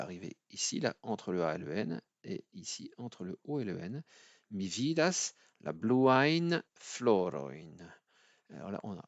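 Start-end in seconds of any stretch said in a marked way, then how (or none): 4.5-7.8 bluain floroin stretched with a clear yen sound; teacher showing the tricky yen sound; slow demo. Shown as a demonstration. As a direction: carefully model Mi vidas la bluain floroin. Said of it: "un son qui est un petit peu difficile".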